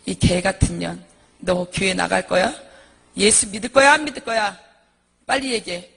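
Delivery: acted-out angry, loud demands; violent drunken husband. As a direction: hurl abuse at his wife, loudly. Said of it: "난폭해져가지고 아내를 팍팍 때려요". (난폭한 남편을 흉내 낸 큰 윽박)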